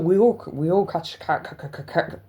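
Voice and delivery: stuck on the first sound; stammering on ca; stutter. Real, not acted. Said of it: "oh, bad stutter".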